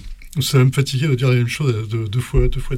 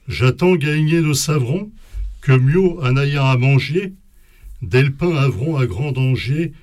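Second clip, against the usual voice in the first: poem reading. Acted. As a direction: read the medieval lines with care, slightly raised. Reads Old French poem aloud.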